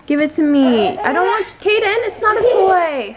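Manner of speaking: exasperated scolding. Real, not acted. Toddler grabs her phone.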